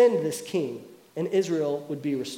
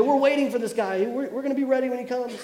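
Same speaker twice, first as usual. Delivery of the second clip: eager expectation; 6 semitones higher than usual. Retold or imitated. Voicing Israel's eager expectation.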